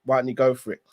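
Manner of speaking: lightly voiced wife, slow and low; a hint of a wife urging, unhurried; coaxing wife. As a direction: gently nudge him toward the job, slowly. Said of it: "and she goes".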